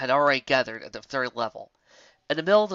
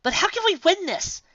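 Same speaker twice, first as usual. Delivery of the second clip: voiced; 3 dB louder than usual. A narrator's reading. Twilight worried question.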